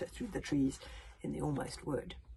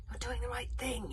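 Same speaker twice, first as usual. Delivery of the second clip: hissed whisper; 6 semitones higher than usual. A narrator's reading. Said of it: "hissed Hiccup".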